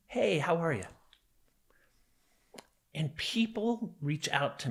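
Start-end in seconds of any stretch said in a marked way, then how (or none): 0.1-0.8 higher, offhand mock greeting; carefree brush-off. Victim quoting his abuser's casual dismissal, carefree. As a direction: imitate a casual, dismissive hello at ordinary volume. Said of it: "you just carefree dismiss me".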